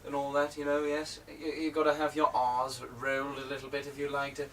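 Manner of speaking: lightly put-on Queen's English, very proper; mock-proper British enunciation. Shown as a demonstration. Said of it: "No, the Queen's English".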